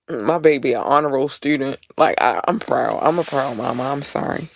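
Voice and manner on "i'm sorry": softer mock apology, taken back at once; a soft, half-meant sorry; muttered mock apology. Real, not acted. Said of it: "no, I'm not sorry".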